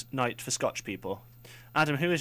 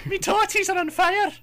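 put-on awful Scottish accent; 8 dB louder than usual. Radio host mocking a Scottish nanny in an awful Scottish accent. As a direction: ham up a bad Scottish granny accent. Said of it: "awful Scottish accent".

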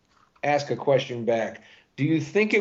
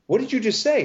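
shocked dad; 11 semitones higher than usual. Retold or imitated. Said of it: "And I'm like".

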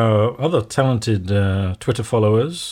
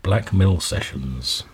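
Black Mill Sessions slow and low, each word spaced; slow ominous reading; 3 semitones lower, slower than usual. Acted. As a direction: read Black Mill Sessions slowly and darkly. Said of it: "three words marked on each".

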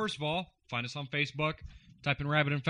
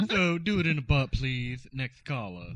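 Ladies' Man impression; 4 dB louder than usual. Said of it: "the ladies' man".

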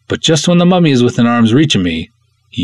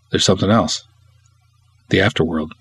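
hushed intro in the style of a singer; 4 dB quieter, faster than usual. Retold or imitated. Host imitates a singer's intro for listeners. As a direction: hush it like a preacher in a song.

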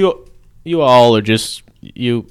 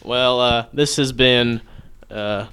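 much softer, huffy farewell; offended quiet exit; 3 semitones lower, 9 dB quieter than usual. Acted. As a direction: sulk off with quiet wounded dignity. Offended preacher storming off.

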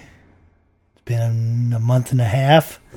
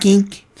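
imitating a clunky remote click, higher; mock click sound; 7 semitones higher than usual. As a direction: click it out like an old switch. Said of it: "it literally would go kink".

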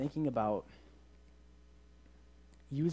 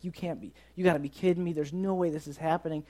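mild mock yell, pitched up; half-voiced outraged rant, raised in pitch; retold phone yelling; 4 semitones higher than usual. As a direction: imitate someone losing it on the phone. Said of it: "like, yelling at someone".

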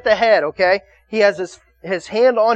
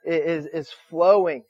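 mock tender groom; 2 semitones lower than usual. Groom voiced to his bride.

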